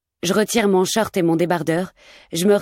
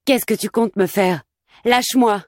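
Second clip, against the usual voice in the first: pained protest; 3 semitones higher than usual. Acted. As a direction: fight back through the pain. Dragged by the hair.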